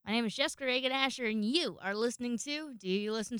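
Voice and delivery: fast, bright host intro; restarting the intro with pep; peppy redo. Real, not acted. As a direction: rattle the name off with fresh energy. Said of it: "Oh, I did that backwards".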